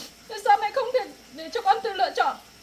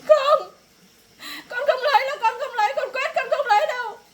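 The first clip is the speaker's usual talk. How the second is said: loud, higher, defiant refusal; shouted refusal; 4 semitones higher, 7 dB louder than usual. Acted. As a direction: yell no at your mother. Daughter refuses marriage, shouting.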